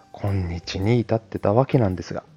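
ordinary delivery

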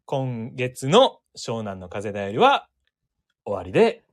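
slow, low character announcer; put-on sign-off voice. Shown as a demonstration. Co-host closing Shonan newsletter on request, put-on voice. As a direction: draw it out low and deliberate. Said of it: "あの、さっきの声で".

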